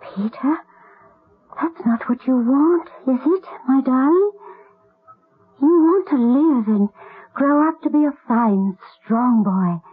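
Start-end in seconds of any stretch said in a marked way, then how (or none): 0.0-0.6 sharp gasp, then his name breathed out; shocked hush; gasped whisper. Acted. Boy wants to die. 1.6-8.8 crying as she coaxes him; tearful plea. Acted. Pleading with dying boy.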